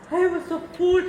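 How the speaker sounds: normal talking voice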